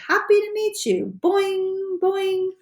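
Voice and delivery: high, bouncy frog voice with boings; fabulous froggy greeting. Acted. Frog leaps toward the hamster, high bouncy froggy greeting. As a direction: greet him like a springy cartoon frog. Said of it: "in my fabulous froggy way".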